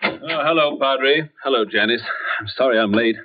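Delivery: winded after hurrying; out of breath. Acted. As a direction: catch your breath while greeting. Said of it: "You seem a good deal out of breath".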